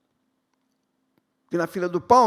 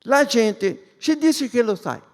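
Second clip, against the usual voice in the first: slow, playful mock Italian; Italian accent; 3 semitones higher, 4 dB louder, slower than usual. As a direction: ham up an Italian Jesus. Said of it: "se Jesus fosse italiano".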